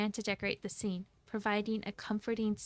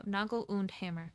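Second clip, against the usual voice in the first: put-on a half-hearted German accent on Noggle und Hammer; botched German accent. Streamer naming the company, in a faltering German accent. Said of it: "I messed up on the accent for that".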